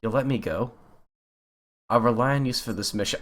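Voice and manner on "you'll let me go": ordinary talk, nothing marked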